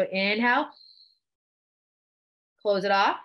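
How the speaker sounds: measured breathing cues with long pauses; guided breathing. Shown as a demonstration. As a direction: lead them breath by breath. Leads a breathing exercise.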